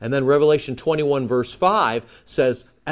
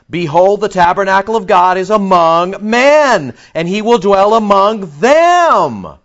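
loud, high proclaiming from the throne; booming voice from the throne; 6 semitones higher, 9 dB louder, slower than usual. Acted. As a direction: boom it out like a heavenly herald. Preacher booms the voice from throne.

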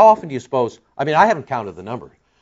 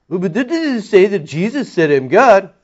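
higher, louder mock objection; objector's challenge; 8 semitones higher, 6 dB louder than usual. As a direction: blurt a doubter's pushy question.

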